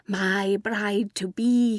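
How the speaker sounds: slow, tender murmur. A narrator's reading. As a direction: draw it out like a doting lover. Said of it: "he murmured several times".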